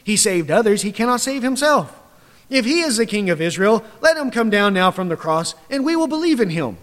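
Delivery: lightly voiced scornful priests; mocking. Chief priests mocking Jesus on the cross, mild sneer. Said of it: "mocked him, saying".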